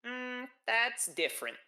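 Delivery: high, drawn-out Minnesotan lilt; Minnesotan accent. Acted. Partner reacts to the seafood joint comparison, Minnesotan accent. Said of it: "a Minnesotan accent".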